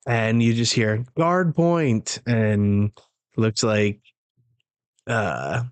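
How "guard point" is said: high-pitched move call at talking volume; mock yell. Reading the shout heard from afar, mild mock yell. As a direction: mildly mimic a called-out attack. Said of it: "he makes it to him and yells".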